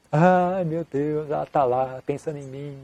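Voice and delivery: lightly mocked lovesick sighing; dreamy mock longing, drawn out on "Ai"; romantic inner voice. Monk's wandering thoughts about her during meditation, mildly mocked wistful longing. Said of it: "Aí veio, né?".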